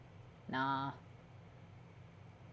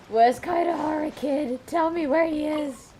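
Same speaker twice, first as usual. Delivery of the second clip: put-on higher, pushy interrogation of the kid; mock demanding; 9 semitones higher, 5 dB louder than usual. Player grilling a kid for Kazuha's whereabouts, mock demanding. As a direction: lean on the kid for answers.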